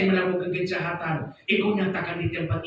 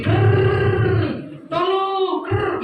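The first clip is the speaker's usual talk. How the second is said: strangled gurgling rattle around a high, broken call for help; imitated death rattle, far higher; choking gurgle; 9 semitones higher, 3 dB louder, much slower than usual. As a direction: gurgle through a broken throat. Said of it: "Suara keluar dari sini".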